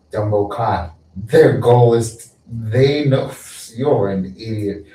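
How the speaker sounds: hammed-up wizard scolding; mock scolding wizard. Wizard berating the listener.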